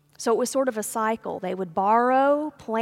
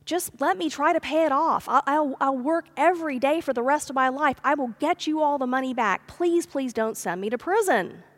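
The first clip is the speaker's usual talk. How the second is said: higher, pleading rush of promises; begging; 4 semitones higher than usual. Retold or imitated. Servant pleading with landowner to spare him from prison. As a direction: beg the master not to send you away. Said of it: "and he begged".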